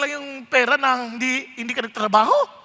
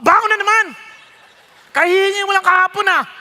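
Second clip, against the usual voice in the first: louder, exasperated scolding; irritated father; 4 dB louder than usual. Retold or imitated. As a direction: snap at the child for asking again. (naiinis na tatay na sumisigaw)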